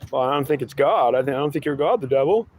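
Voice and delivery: high, pleading whine of a lost believer; whiny seeker voice. Acted. Seeker whining back at his God, high and whiny. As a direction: whine it up high like a fed-up crybaby.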